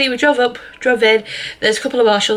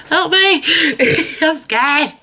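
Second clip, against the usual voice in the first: high, playful fake panic; mock scared; 7 semitones higher, much slower than usual. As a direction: squeal it like pretend fright. Joking cry leaving for vaccine.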